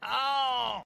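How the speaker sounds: high-pitched redneck character; a put-on voice yelling about the bus.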